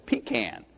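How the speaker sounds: "Pecan" as pee-KAN, a short flat a; Georgia pecan. Shown as a demonstration. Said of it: "Georgia is the pecan state".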